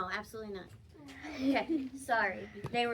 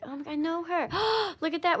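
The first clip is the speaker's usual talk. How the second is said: mock excitement; 6 semitones higher, faster than usual. Shown as a demonstration. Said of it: "point to it and be like".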